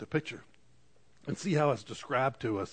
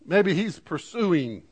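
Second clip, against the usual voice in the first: slow mock taunt; 4 semitones higher, 5 dB louder, slower than usual. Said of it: "Begins to make fun".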